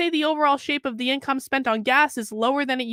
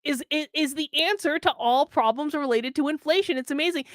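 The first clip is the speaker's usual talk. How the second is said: sarcastic. Acted. Mocking budgeting advice.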